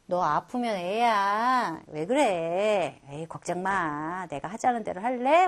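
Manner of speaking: put-on older sister calmly comforting sick younger sister. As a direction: soothe her gently and take your time. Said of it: "위로지요".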